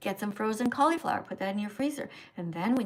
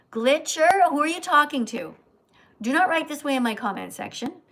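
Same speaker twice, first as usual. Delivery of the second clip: scolding; 3 semitones higher, 4 dB louder than usual. Real, not acted. Scolding a commenter.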